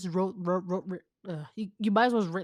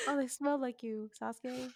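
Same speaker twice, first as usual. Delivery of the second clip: mock swooning girl; 5 semitones higher, 9 dB quieter than usual. Mock Sakura line.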